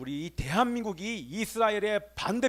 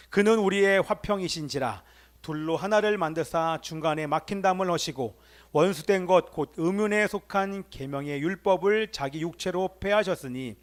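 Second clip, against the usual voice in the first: measured recitation of a Bible verse; scripture reading; 3 dB louder than usual. Real, not acted. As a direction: read it out formally for the congregation. Reads scripture aloud.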